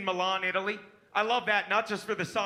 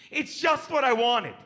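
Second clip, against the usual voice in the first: mock shriek; 3 dB louder than usual.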